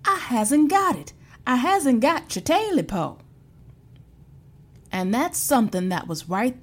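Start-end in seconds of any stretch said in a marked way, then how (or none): 0.1-3.2 scared denial. Acted. Terrified man denies to creature.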